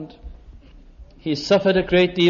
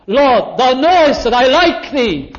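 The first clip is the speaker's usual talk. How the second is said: higher and louder, pleading; exasperated plea; 5 semitones higher, 4 dB louder, slower than usual. Acted. Peter answers the third question, a higher, louder hurt plea. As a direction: push back, hurt and pressed. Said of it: "What more do you expect?".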